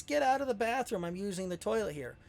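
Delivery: quick, high mock yell at the police; retold scream. Wife on the toilet yells at police breaking in, mock yell. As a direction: shout them out of the bathroom, half-acted. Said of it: "She starts screaming at the police".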